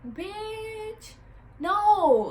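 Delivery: high, loud flat refusal; indignant no. Retold or imitated. Bottle girl refuses the stranger's question, high and loud. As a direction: shut it down hard. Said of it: "I literally was like".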